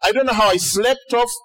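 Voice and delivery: lightly voiced over-apologetic Jesus; mock apology. Jesus to the disciples after sleeping, mildly hammed-up apology. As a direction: drag out "so sorry" in light parody of contrition. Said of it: "you'd expect that Jesus' next response".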